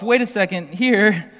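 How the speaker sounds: mock alarmed objection; imitating a puzzled Jew. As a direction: play a scandalized Jewish listener. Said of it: "A Jew would have read this and thought".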